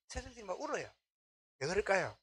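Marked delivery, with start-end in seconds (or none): none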